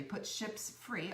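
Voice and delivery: slow, clear "ships free" as one code; "Put ships free" said slowly and clearly, like dictating a code; spelling out the promo code. Shown as a demonstration. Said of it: "all one word".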